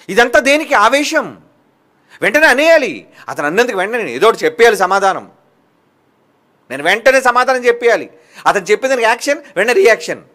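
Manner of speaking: fiery pulpit delivery; forceful preaching. Acted. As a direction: preach it hard at the congregation. Preacher rises to full force.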